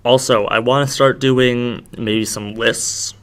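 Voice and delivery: tired, slurred speech; words blurred by too much saliva; slurring words. Real, not acted. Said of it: "I'm slurring my words 'cause I'm tired".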